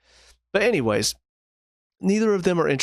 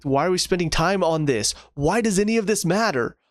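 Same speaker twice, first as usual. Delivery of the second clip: exasperated; 4 semitones higher than usual. Retold or imitated. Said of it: "I'm like".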